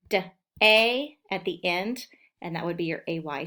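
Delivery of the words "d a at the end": slow, the letters stretched out; slow emphasis. Shown as a demonstration. Teacher slowly showing children where the A falls. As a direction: stretch it out so kids hear the A at the end. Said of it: "Where do you hear that A?".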